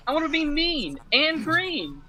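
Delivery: Luigi voice. Retold or imitated. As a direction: squeak it like a cartoon plumber. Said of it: "Luigi comes in and goes".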